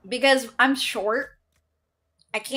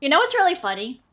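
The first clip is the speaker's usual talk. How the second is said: words round a bite of food; chewing steak; 5 semitones higher, faster than usual. Real, not acted. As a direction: mouth full. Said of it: "Sorry, I'm talking with my mouth full".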